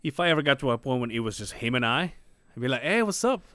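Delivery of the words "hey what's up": put-on a touch higher, eager to please the old-school dad; lightly voiced overeager suitor; kiss-ass suck-up. Boyfriend sucking up to girlfriend's strict dad, eager. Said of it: "Fucking kiss ass".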